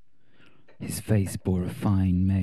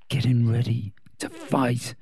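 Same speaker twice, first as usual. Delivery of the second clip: gritted teeth; 3 semitones higher than usual. Acted. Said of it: "said through gritted teeth".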